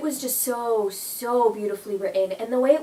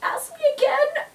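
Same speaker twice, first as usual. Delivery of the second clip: lightly voiced J J; 4 dB louder than usual. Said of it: "she's like".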